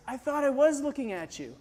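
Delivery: soft, dazed imitation; lightly voiced ailing man; weak sick friend. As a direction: answer faintly, out of your mind with sickness. Repeats sick friend's dazed answer.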